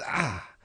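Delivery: short, soft mock cry of pain. Frog stung in the back mid-creek, mock pained cry.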